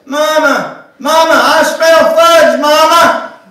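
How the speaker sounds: put-on high loud whining child calling. A narrator's reading. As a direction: whine for mama like a small boy. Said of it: "came John's whining voice".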